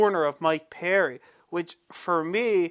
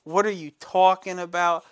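retold anger; 2 semitones higher, 5 dB louder than usual. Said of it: "I got mad".

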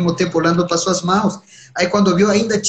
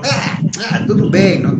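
higher, stammering hesitation; hesitant Shiva; 5 semitones higher than usual. Acted. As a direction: stall awkwardly before giving in. Shiva hesitating to his wife. (Shiva hesitando com a esposa, voz mais aguda e gaguejante)

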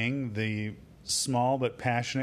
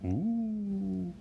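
wolf howl; 12 semitones higher, much slower than usual. Acted. Howling sign-off call.

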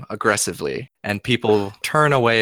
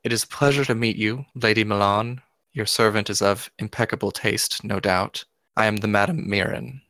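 smirking madame. Acted. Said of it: "woman smiles, just a little smirk".

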